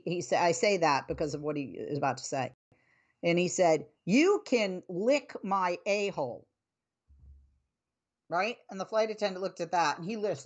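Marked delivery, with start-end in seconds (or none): 4.1-6.4 slow, lightly imitated Southern drawl; a touch of heavy Tennessee twang; Tennessee accent. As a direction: draw it out like a mock Tennessee man. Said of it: "very heavy Tennessee accent, Southern accent".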